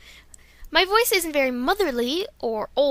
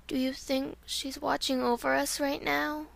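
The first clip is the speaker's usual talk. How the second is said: soft wondering; 7 dB quieter than usual. Acted. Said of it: "here's Violet Mist".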